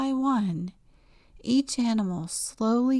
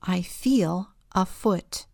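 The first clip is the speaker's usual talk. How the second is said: whispering. A narrator's reading. Whispered story intro.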